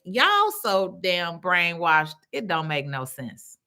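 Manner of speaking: usual speaking voice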